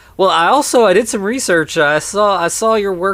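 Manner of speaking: high, loud, eager, starstruck rambling.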